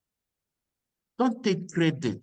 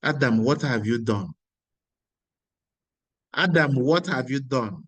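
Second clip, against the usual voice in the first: God's stern call; 3 semitones lower, 4 dB louder than usual. Acted. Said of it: "not the normal voice God".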